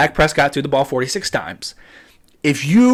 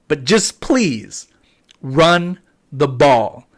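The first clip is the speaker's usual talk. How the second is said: slow pleading; 2 semitones lower, much slower than usual. Real, not acted. Begging the Cowboys to run.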